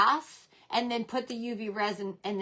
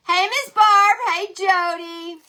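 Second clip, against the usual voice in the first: excited greeting; 9 semitones higher, 9 dB louder than usual. Real, not acted. Greeting viewer by calling out.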